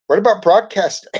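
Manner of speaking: eager schoolboy question; curious kid. A narrator's reading. Carlos asks teacher.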